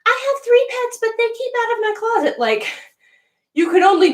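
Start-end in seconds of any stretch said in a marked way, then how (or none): 0.1-2.4 high, prim mock seller voice; mocking high seller impression; mock seller quote. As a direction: parody the smug listing. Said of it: "you always see on Lace Market".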